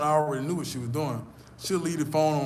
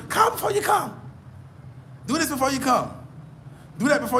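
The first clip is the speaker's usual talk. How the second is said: mock American; 9 semitones higher than usual. Mocking American dating etiquette.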